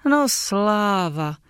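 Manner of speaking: slow, relieved sigh of words. Acted. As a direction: let the relief out slowly. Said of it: "ozvalo se s úlevou". (pomalu, s úlevou)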